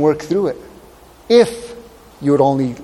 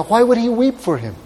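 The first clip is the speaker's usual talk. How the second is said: high-pitched rhetorical question; incredulous, as if it makes no sense; puzzled questioning; 6 semitones higher than usual. Acted. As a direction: lift the voice high in bafflement.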